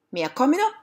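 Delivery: high-pitched, moderate shout. Acted. Dog on the roof calling down, shouted. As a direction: call out high, lightly shouted. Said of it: "the dog shouted".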